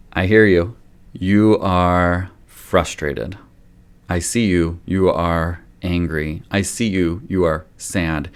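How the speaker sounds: put-on slow, gentle naming of each feeling to a toddler; slow empathizing. Shown as a demonstration. Parent to upset toddler, slow soothing empathy. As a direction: calmly reflect the child's feelings back, one at a time. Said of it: "you can take a little bit of their tone too".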